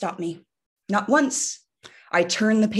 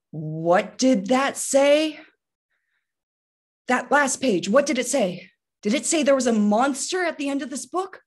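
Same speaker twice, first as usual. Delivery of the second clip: worried Grover; 5 semitones higher than usual. Acted. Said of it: "Grover starts to realize".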